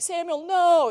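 high, falling mock plea; acted desperate pleading; begging. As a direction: imitate someone begging not to be rejected. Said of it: "he starts begging".

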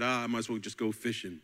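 a hint of a fast, giving-up mumble; resigned Peter. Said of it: "he went out fishing and said".

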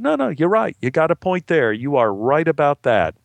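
high start, settling down; hasty placating agreement. Acted. Actor giving in to the gambler, placating. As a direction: back off with acted eagerness.

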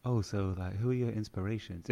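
soft imitation of a female interviewer; real soft voice, lightly imitated; soft-voiced interviewer. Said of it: "like, a real soft voice like that".

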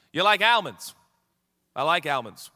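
put-on AL-monds in the ad guy's accent; insistent accented mimicry of the ad; commercial character's accent. Man repeating himself to his friend, in the ad's accent. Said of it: "I hope that this accent".

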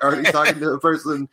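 normal talking voice

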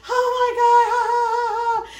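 high, sing-song ha ha ha; mocking friend's laugh. Imitating the friend who laughed at her, high sing-song cackle. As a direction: mimic her cackling at you. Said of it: "And she's like".

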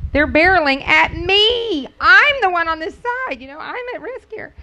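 wife retelling her alarmed complaint to her husband; alarmed protest. Retold or imitated. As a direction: plead nervously from the passenger seat. Retelling panic at husband's slow turn.

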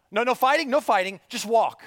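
calm the crowd but press them on; firm leader command. Pretend. Moses voiced directing people.

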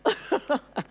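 high laugh falling away; amused laugh. Real, not acted. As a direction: laugh at your own outburst. Laughs after own shouted demo.

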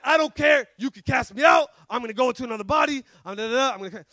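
put-on defiant demon in a Jamaican accent; Jamaican-accented taunt, tumbling into a trail-off. Demon refusing to be cast out, Jamaican accent. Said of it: "with the Jamaican accent".

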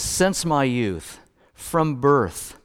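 drawn out slowly, word by word; slow emphasis. Shown as a demonstration. Pastor quoting verse five slowly to the congregation. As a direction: lean on each phrase slowly. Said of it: "he says in verse five".

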